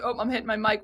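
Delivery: usual speaking voice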